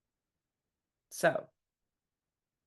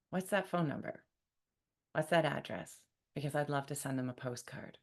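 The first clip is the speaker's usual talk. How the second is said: calm reply; 4 semitones lower, 6 dB quieter than usual. Shown as a demonstration. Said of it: "calmly responding".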